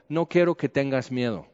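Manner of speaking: a hint of a gentle father; fatherly reassurance. God speaking to him like a papá, softly reassuring. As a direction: say it like a father calming his son. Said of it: "como un papá".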